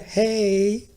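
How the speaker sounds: bright clown "Hey" with a smile; smiling clown greeting. Shown as a demonstration. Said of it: "See, put a smile on your face".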